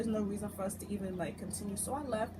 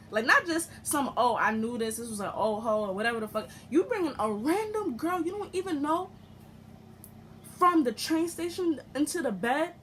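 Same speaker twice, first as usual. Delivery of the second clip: retold anger; 3 semitones higher, 5 dB louder than usual. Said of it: "never been this angry".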